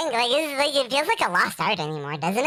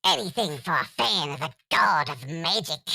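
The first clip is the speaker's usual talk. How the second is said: put-on lower, theatrical Cockney accent; 3 semitones lower than usual. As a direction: play a cheeky Cockney showman. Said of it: "The Cockney accent".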